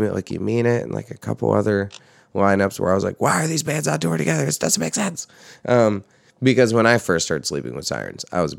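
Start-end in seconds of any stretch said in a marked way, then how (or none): 3.2-5.3 high-pitched, quick mock bafflement; baffled reaction. Recalling a reaction to odd tour lineups, baffled. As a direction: retell your puzzled protest in a raised, hurried voice. Quotes own puzzled reaction.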